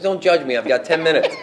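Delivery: high, loud, laughing defense; laughing defensively. Retold or imitated.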